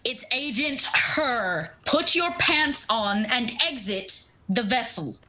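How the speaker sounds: lightly voiced stern agent, measured and slow; slow, deliberate official order; curt woman's order. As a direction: space the words out as a firm command. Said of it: "a very curt woman's voice".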